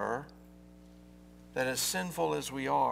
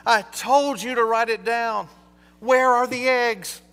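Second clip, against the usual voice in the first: higher, louder, fed-up scolding; exasperated; 6 semitones higher, 8 dB louder than usual. Acted. Wife scolding husband who forgot the list, exasperated. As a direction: let the frustration spill out.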